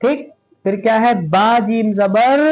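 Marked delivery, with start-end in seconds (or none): 1.3-2.4 slow, drawn-out letter names; slow spelling drill. Shown as a demonstration. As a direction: spell it out slowly for students. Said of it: "इस तरह पढ़ते हैं इसको". (धीमी हिज्जे)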